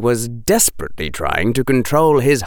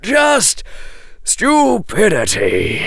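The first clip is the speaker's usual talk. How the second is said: much higher, forced out with effort; a strained, dry dismissal; 12 semitones higher, slower than usual. Acted. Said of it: "said a strained voice".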